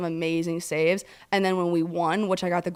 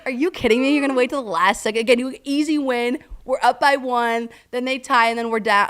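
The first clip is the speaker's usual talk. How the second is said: higher-pitched, indignant retelling; exasperated disbelief; 4 semitones higher, 3 dB louder than usual. Retold or imitated. Fan reacting to a last-second clinch, exasperated disbelief. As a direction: rattle off a fan's disbelieving complaint.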